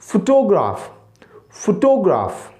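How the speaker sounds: फोटोग्राफ with careful vowels; teacher's फोटोग्राफ; correct pronunciation. Shown as a demonstration. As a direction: model the right फोटोग्राफ. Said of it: "तो आप क्या कहेंगे जी".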